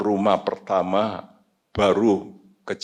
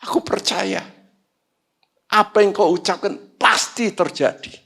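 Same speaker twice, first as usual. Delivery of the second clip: retold tearful prayer; 10 semitones higher than usual. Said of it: "saya nangis".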